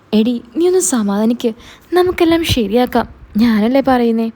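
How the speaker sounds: husband raising his voice to settle his wife. Acted. Husband pleading on phone with wife. (ഭാര്യയെ സമാധാനിപ്പിക്കാൻ ഉച്ചത്തിൽ അപേക്ഷിക്കുന്ന ഭർത്താവ്)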